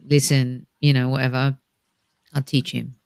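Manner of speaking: lightly put-on Russian accent; faint mock Russian villain voice. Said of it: "apparently a Russian accent".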